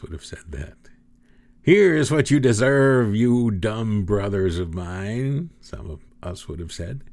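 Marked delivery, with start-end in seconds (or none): 1.6-5.5 mock revenge. Imagined vengeful retort to brothers.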